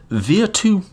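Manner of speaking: Virtù said the Italian way, high and stressed on tù. Shown as a demonstration. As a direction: sing out Virtù in Italian, stress on the last syllable. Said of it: "my accent's doing terrible things".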